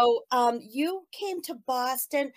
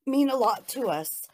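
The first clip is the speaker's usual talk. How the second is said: moved, voice welling up a little; touched while remembering, holding it together; emotional; 3 semitones higher than usual. Real, not acted. Fan thanking a songwriter, emotional. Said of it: "I'm getting all emotional".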